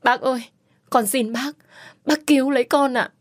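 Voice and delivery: high, begging on her knees; kneeling and begging the old servant to save her; desperate pleading. Acted. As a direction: plead for rescue, voice rising. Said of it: "vội vàng quỳ xuống".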